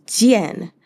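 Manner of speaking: Jian said with a sharp falling fourth tone. Shown as a demonstration. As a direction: drop the pitch hard on Jian. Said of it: "fourth tone".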